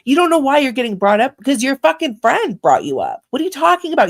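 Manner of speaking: sharp indignant retort, rising high. Real, not acted. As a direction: snap back, outraged. Angry retort to quoted woman.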